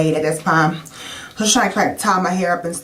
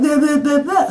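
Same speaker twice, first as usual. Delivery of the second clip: garbled speech imitation; 8 semitones higher than usual. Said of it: "but I can't talk".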